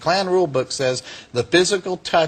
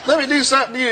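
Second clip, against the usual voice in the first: high-pitched character voice; high, put-on friendly voice; imitated kindly reverend; 10 semitones higher, faster than usual. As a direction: mimic a reverend sweetly offering a favor. Reverend's voice continues on the phone.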